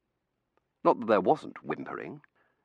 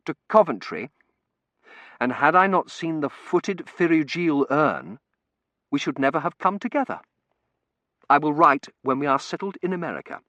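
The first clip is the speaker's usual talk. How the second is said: gushing bride; 8 semitones higher, 5 dB louder than usual. Acted. Reads Tossie's gushing letter.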